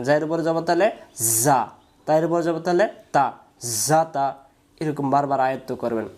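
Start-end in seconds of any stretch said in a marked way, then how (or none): 0.0-3.3 each letter named with its vowel mark, then joined; spelled out letter by letter. Shown as a demonstration. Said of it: "এক কথায় এমন করে পড়বেন যেন এই এক অক্ষর পড়তে গিয়ে যেন আবার বানান লাগে". 3.9-4.3 জাতা read straight through without spelling; read directly. Shown as a demonstration. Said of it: "direct বলতে পারেন".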